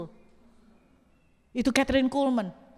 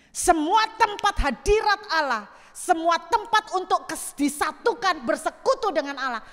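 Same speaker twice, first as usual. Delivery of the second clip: preaching emphasis; 4 semitones higher, 3 dB louder than usual. Real, not acted. Preaching at full force.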